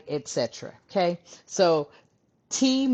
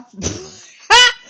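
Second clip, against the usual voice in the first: loud, high burst of laughter; sudden cackle; 13 dB louder than usual. Real, not acted. Cracking up over the delusional energy, loud cackle. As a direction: crack up mid-sentence.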